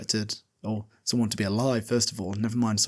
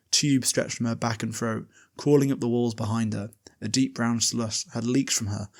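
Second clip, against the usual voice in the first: reading aloud. Shown as a demonstration. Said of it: "which I'll read out".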